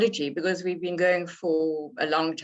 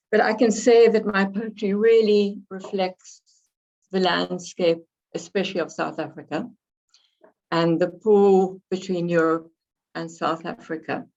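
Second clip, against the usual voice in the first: slightly hoarse from a cold. Real, not acted. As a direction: speak with a mild cold rasp. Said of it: "I've got a bit of a cold and I'm slightly hoarse".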